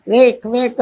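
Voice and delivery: imitated vomiting noise, played for laughs; mock retching. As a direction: fake a retch twice, comic not real. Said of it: "అంటూ". (వాంతి చేసుకుంటున్నట్టు హాస్యంగా నటించిన శబ్దం)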